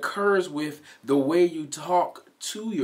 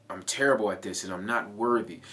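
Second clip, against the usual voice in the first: quick, harsh self-put-down; harsh self-talk; 4 semitones lower, faster than usual. Shown as a demonstration. Coach demonstrating aggressive self-talk to viewers, fast and harsh. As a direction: spit it out like scolding yourself. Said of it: "Do you hear how aggressive that is".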